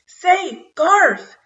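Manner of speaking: loud, high mouse shout; top of his voice. A narrator's reading. Mouse shouting to get the boy's attention. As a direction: yell it as loud as a tiny mouse can. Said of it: "at the top of his mouse voice".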